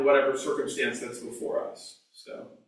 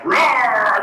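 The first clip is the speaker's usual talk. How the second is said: hammed-up growl, higher and louder; mock angry roar; 5 semitones higher, 5 dB louder than usual. Teacher acts out anger flying loose, mock angry roar. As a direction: let out a playful beast roar. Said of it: "instead of just letting my anger fly".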